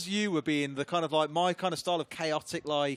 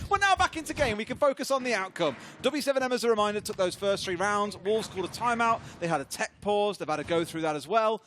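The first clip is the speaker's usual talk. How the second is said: caster commentary. Acted. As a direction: call the match to viewers. Live casting the match.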